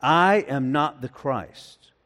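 slow "I am not the Christ", leaning on a drawn-out "I"; emphatic denial. Shown as a demonstration. Preacher quotes John's confession to the congregation, slow and emphatic on "I". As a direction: stretch and stress the opening "I", then fall away to "Christ". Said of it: "I love the emphasis".

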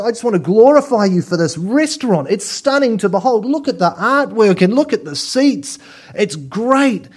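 high, quick, gushing praise; gushing diner. Pretend. Diner praising the owner, high and gushing. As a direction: rave about the restaurant without tasting. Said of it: "you go to the owner and you say".

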